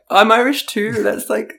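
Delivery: high-pitched, gushing mock excitement; eager outburst. Imitating herself on hearing an Irish accent, eager outburst.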